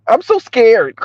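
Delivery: lightly put-on fright; mock scared. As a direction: play scared, unconvincingly. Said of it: "play scared after the fact".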